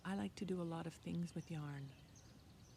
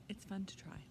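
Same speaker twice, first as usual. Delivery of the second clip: whispering; 6 dB quieter than usual. Acted. Aside to children.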